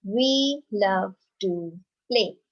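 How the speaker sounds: slow, deliberate read-aloud; teacher modelling a statement; slow model reading. Shown as a demonstration. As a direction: read it out slowly for children to copy. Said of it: "let's read another sentence".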